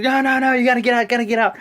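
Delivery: high, loud insistent ordering out; mock referee yell. Fan acting out the referee ordering Jordan out, loud mock yell. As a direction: shout like a strict ref shooing him away. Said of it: "He's like".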